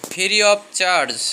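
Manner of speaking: slow English demo; slow teaching model. Shown as a demonstration. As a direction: pronounce it slowly for learners. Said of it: "এটা বলবো এইভাবে".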